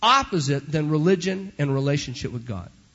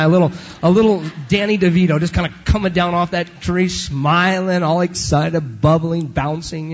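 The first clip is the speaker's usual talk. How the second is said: bubbly and excited; 5 dB louder than usual. Retold or imitated. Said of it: "like little Danny DeVito".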